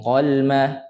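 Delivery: "qalma" hurried, with little time on the l; too fast. Shown as a demonstration. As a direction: hurry through the l of "qalma". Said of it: "laju sangat tak nak". ("qalma" laju sangat)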